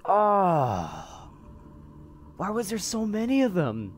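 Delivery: high, loud, rattled aftermath; loud, shaken disbelief after the attack; shaken outcry. Real, not acted. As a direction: still yelling from the scare. Aftermath of monster swarm.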